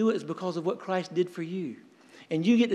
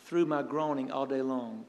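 groaning lament; 4 semitones lower, 4 dB quieter, slower than usual. Retold or imitated. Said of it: "you see the intensity of him".

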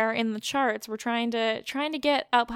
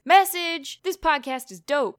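mock Joey Sasso voice; 4 semitones higher, 3 dB louder, slower than usual. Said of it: "which is not his voice".

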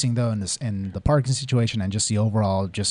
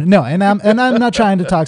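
laughing; 9 semitones higher, 9 dB louder than usual. Real, not acted. Laughing, loud defence.

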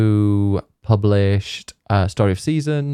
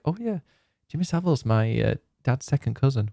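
high, light, bragging tone, mocking her younger self; mock proud boast; 4 semitones higher, 4 dB quieter than usual. Mocking her old self bragging to friends, mock proud. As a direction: show off the family link, tongue in cheek. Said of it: "I used to be so proud".

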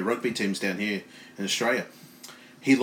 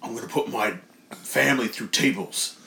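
big guy promo. Retold or imitated. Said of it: "standard big guy promo".

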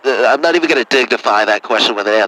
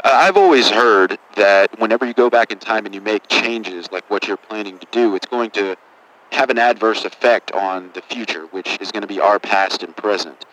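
lowered doctor voice; 5 semitones lower than usual. Acted. Doctor character, lowered serious voice.

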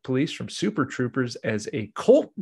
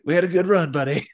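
mock tearful farewell; 5 semitones higher, faster than usual. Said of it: "He's like".

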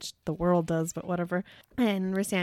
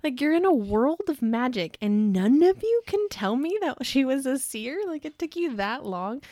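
mock outrage, pitched higher; exasperated rant; 5 semitones higher, 3 dB louder than usual. Reader berating sisters who missed the seer, exasperated. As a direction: scold them in higher-pitched disbelief.

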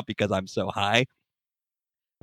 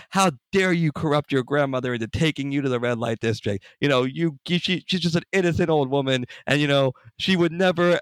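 mock-angry scolding, pitched higher; imitated screaming; 6 semitones higher than usual. Angry mom scolding her son for corrupting grandma, mock scream. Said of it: "she's literally screaming".

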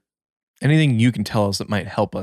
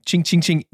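coin jingle imitation; 6 semitones higher than usual. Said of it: "like, like".

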